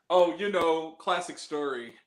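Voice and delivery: slow, straight-faced retelling; measured movie-hero deadpan; deadpan serious. Retold or imitated. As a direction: play the absurd story dead seriously. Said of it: "playing it like it's a serious movie".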